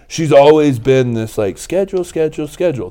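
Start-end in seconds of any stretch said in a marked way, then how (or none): 1.6-2.9 Amy Porterfield. Retold or imitated. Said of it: "listening to Amy Porterfield saying".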